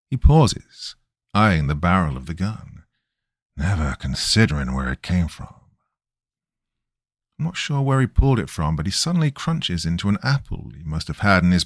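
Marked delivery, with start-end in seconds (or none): 3.5-5.5 raspy voice. Acted. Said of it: "raspy voice".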